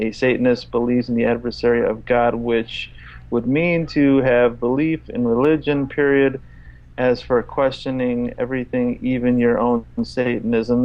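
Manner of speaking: one long run-on read that ignores every stop; read without punctuation. Shown as a demonstration. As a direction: plough through with no sentence breaks. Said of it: "I'm gonna read it without his punctuation".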